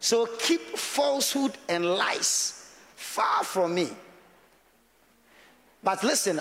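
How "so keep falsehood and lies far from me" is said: drawn-out prayer from scripture; lightly intoned Bible verse; slow prayerful reading. Shown as a demonstration. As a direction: stretch each word like a prayer. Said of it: "I say".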